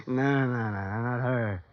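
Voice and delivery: a firm, pressing string of no's; emphatic denial. Acted. Witness flatly denies to the detective, emphatic. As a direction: insist on it, each no landing hard. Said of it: "You say that very emphatically".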